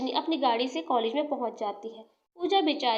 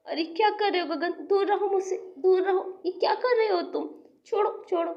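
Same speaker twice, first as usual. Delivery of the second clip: higher, panicked protest; frightened pleading; 5 semitones higher than usual. Acted. Rajni begging Gagan to let go, frightened and high. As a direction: push him off in fear.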